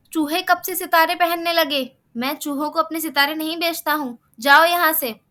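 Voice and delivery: mock him, then order him out; a star seller shouting the mouse away; dismissive scolding.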